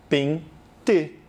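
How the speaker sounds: PENTE as nasal PEN, pause, TE; split, nasal first syllable. Shown as a demonstration. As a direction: break PENTE after its nasal vowel. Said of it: "deixar a vogal anterior com som nasal". ("pente" em sílabas, com E nasal)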